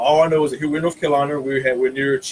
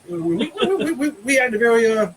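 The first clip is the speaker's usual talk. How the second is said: laughing; 8 semitones higher than usual. Real, not acted. Laughing at own foolish story.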